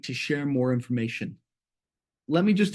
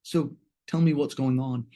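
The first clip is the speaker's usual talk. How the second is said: calm, lower, gentle invitation; warm and calm; 3 semitones lower than usual. Shown as a demonstration. Teacher showing a calm question to a client, warm. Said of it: "it's warmer, it's calmer".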